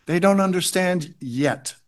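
"yet" set apart at the end and stressed. Real, not acted. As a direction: land firmly on the final "yet". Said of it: "I emphasize yet".

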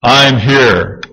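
mildly booming divine voice; booming God. Retold or imitated. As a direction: answer as God, only slightly fuller. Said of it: "this booming voice of God says".

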